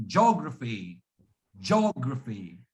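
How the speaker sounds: "geography" squeezed to JOG-ruh-fee, low falling end; second pronunciation. Shown as a demonstration. Teacher models the alternative for Arpit, JOG-raphy for "geography". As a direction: merge the "geo" of "geography" into one stressed JOG. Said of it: "So the second pronunciation".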